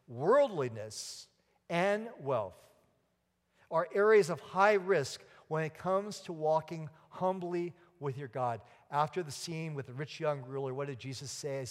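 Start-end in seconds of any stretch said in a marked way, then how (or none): 0.1-8.6 slow, deliberate, word by word; said again slowly. Shown as a demonstration. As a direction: spell it out slowly so it sinks in. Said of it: "Let me say it again slowly".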